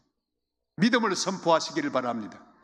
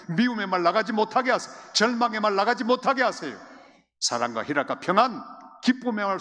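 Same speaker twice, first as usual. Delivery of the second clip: higher, louder building exhortation; fervent preaching; 5 semitones higher, 4 dB louder than usual. Acted. Preacher urging the church to guard their words, rising fervour. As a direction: drive each line harder.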